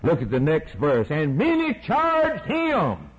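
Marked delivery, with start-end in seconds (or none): 1.1-3.1 slow reading. A narrator's reading. Reading scripture slowly.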